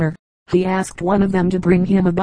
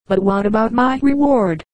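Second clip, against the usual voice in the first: anxious call; 3 semitones higher than usual. Acted. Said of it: "called the crane anxiously".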